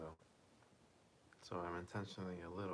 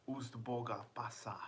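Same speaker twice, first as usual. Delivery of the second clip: whispered name; 3 semitones higher, 3 dB louder than usual. Pretend. Whispering a viewer's odd name.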